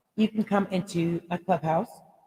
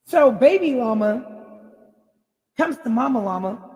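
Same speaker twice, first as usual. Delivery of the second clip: words spill out through laughter, higher; laughing; 4 semitones higher, 4 dB louder than usual. Real, not acted. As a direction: still giggling as she tells it. Laughing into the llama story.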